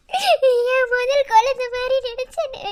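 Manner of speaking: slow, swelling, weeping plea; anguished lament. Acted. Wife to husband, slow and weeping. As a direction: let it break open slowly. Repeats line, second more broken.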